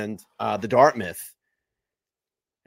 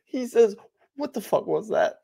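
laughing retelling; 12 semitones higher than usual. Real, not acted.

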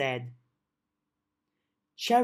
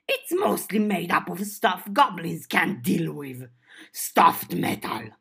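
goblin voice. Acted. Goblin Cherry voiced in story.

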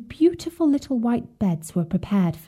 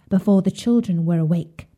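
plain reading voice

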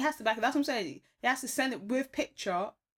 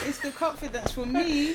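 laughing; 5 semitones higher, 4 dB louder than usual. Real, not acted. Repeating in delight.

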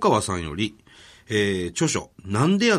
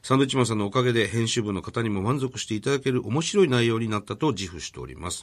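even, measured formal read-out; reading a letter aloud. Real, not acted. Radio host reads an author's thank-you letter to co-host, formal read-out. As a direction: read the polite letter out, clause by clause.

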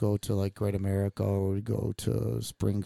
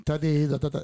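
higher-pitched mock of mom; mocking imitation; 5 semitones higher than usual. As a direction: make fun of her way of talking. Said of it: "made fun and said".

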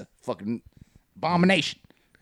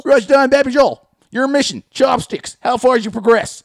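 hammed-up Klan leader; 9 semitones higher, 7 dB louder than usual. Klan leader assigns mission.

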